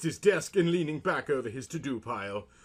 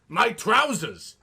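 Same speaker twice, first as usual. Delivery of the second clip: slow, loud, higher cry of dismay; hammed-up dismay; 9 semitones higher, 7 dB louder, slower than usual. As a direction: announce the loss like a tragedy. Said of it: "he announced".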